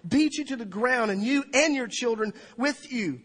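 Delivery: high, loud, urgent lament; impassioned retold weeping. Preacher quoting Jesus weeping over the city, impassioned lament. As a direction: preach the lament at full force, without sobs. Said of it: "starts weeping and says".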